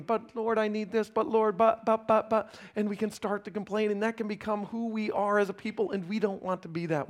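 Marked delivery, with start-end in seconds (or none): 0.0-2.5 mock complaint with stammered, repeated buts; grumbling. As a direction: imitate someone making excuses to God. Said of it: "in our grumbling".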